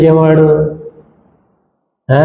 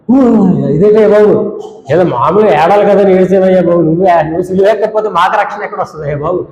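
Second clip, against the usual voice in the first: mock whining believer; 2 semitones higher than usual. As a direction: mimic a fussy churchgoer begging. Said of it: "ఇలా, ఇలా". (హేళనగా ఏడుపు గొంతు)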